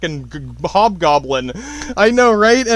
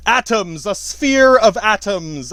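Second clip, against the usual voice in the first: slow explanation; 3 semitones higher, slower than usual. Shown as a demonstration. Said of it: "as the Greek would say".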